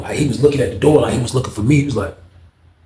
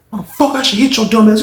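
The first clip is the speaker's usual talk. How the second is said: threatening; 9 semitones higher, 3 dB louder than usual. Retold or imitated. Unc threatening the victim.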